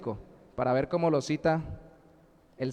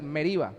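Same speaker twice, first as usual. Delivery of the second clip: Meriba with the accent on the middle syllable RI; stress on the I. Shown as a demonstration. Preacher checking the written accent, Meriba stressed on I. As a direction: hit the i in Meriba, letting the final a fall. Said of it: "el acento en la I".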